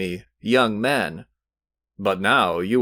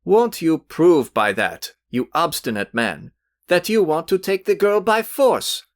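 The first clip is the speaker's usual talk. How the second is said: hot indignation; 7 semitones higher than usual. A narrator's reading. Youth berates his rival before Velchaninov, rising heated indignation. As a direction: build a young man's heated tirade. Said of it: "turning hotly to Velchaninov".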